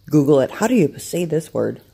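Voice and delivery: chewing while talking; mouth full. Real, not acted. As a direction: talk around a mouthful of food. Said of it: "sorry for being rude and chewing".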